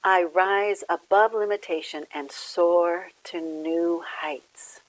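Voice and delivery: measured, clearly projected inspirational reading; devotional reading. Acted. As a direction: read out an affirmation with deliberate pauses. Reads the daily word aloud.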